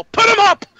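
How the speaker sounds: high, loud mock outburst; mock yell. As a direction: snap it out like he's had enough. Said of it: "He'd go".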